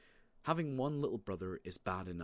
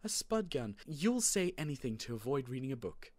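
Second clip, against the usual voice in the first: high, lively mock-incredulous mum; amused mother, voice pitched up; amused disbelief; 5 semitones higher, 3 dB louder than usual. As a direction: scoff at a kid's excuse, tickled. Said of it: "My mother thought this is all very funny".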